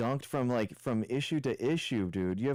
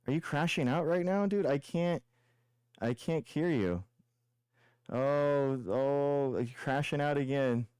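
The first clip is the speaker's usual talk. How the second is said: higher, sing-song fake worry; mocking fake concern; 4 semitones higher than usual. Real, not acted. Streamer taunts his debate opponent with mock concern. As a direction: pretend to care while taunting.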